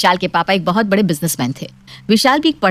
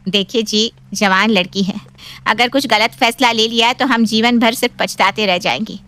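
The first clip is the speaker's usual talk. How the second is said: higher-pitched mother pleading with her husband; anxious wife's appeal; worried mother; 3 semitones higher than usual. Acted. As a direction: gently urge your husband to give in. Narrator voices the pleading mother.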